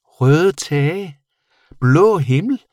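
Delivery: high, loud creature exclamations; astonished bat. A narrator's reading. Bat discovering colours through the window, high astonishment. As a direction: call out each sight high-pitched.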